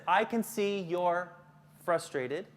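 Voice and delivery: slow reading, pause before "frustrated"; deliberate, spaced-out slide reading; measured reading. Shown as a demonstration. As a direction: read it slowly, splitting off "frustrated". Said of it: "it says".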